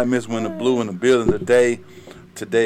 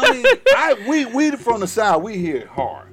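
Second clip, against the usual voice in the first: animated emphasis; 10 semitones higher, 5 dB louder than usual. Real, not acted. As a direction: lean hard on heavy. Host excited about drawl.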